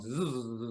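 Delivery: soft imitated buzz of tape rewinding.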